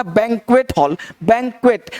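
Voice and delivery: बैंक्वेट with a sounded final T; correct pronunciation. Shown as a demonstration. Teacher tells students what to say, T fully pronounced. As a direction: close बैंक्वेट on a clear T. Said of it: "हम लोग को बोलना है".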